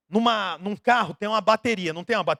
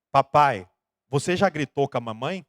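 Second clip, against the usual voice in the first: put-on low, hushed little boy's question; child's voice; 8 semitones lower than usual. Little son whispering in dad's ear, low hushed voice.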